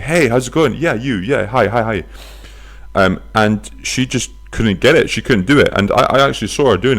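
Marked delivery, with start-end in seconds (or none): 0.0-2.0 higher-pitched, bouncy string of greetings; eager street greeter. Acted. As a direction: hail passers-by as if jumping up and down. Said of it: "They're jumping up and down. They're saying".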